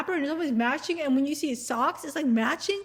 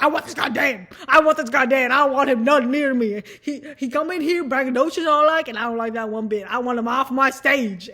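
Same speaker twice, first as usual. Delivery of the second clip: loud, brash ranting in a put-on contestant voice; a hammed-up loud tantrum; mock furious contestant; 7 dB louder than usual. Contestants about the new chef, a loud hammed-up rant.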